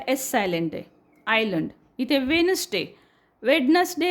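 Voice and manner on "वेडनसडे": वेडनसडे with the D sounded; wrong pronunciation. Shown as a demonstration. Teacher shows the wrong वेडनसडे with the D. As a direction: voice the D in वेडनसडे as a mistake. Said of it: "असं म्हणत नाही आपण".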